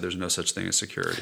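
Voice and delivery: a light imitation of a hushed secret; retold whisper. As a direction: hush it like a therapist leaning in to whisper. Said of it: "she leaned in and whispered".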